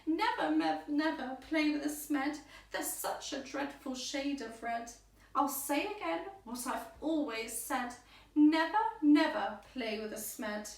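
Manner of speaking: high, loud indignant grandmother; Grandmother Smoo scolding. A narrator's reading. Grandmother scolding her grandchild, high loud indignant. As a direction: speak your mind, high and forceful. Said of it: "this is how she spoke her mind".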